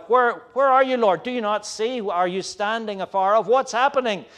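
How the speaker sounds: a plea to a God who seems far off; anguished plea. Acted. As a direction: cry out like the bewildered psalmist. Psalmist's anguished cry voiced.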